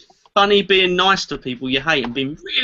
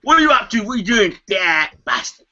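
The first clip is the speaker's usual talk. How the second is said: angry biker; faster than usual. Acted. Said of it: "That's an angry biker".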